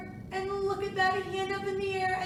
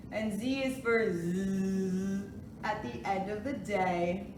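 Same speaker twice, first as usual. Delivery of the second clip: sing-song picture book reading; reading to a toddler; 5 semitones lower than usual. Acted. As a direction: read it gently to little kids. Reads alphabet book aloud.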